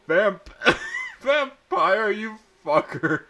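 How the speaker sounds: high, loud angry yell; angry outburst. A narrator's reading. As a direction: spit it out while slapping him. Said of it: "I said, slapping him".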